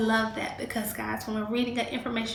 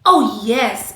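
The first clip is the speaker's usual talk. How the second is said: a bright, louder, joyful "oh yes"; joyful cry; 13 dB louder than usual. Acted. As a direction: call it out gladly like a happy girl. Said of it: "Eva cried joyfully".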